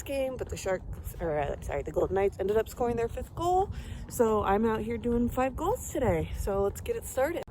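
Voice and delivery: quiet. Real, not acted. Quiet morning vlog talk.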